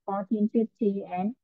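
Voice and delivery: slow, careful number reading; slow model reading. Shown as a demonstration. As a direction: read the prices slowly so each number is clear. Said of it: "hai cái đáp án dễ gây nhầm lẫn". (đọc chậm, rõ từng con số để phân biệt)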